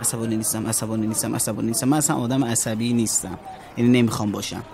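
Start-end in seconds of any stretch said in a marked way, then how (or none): 0.0-1.9 self-calming mantra. Acted. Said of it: "دکتر بهم گفته هی تلقین کنم".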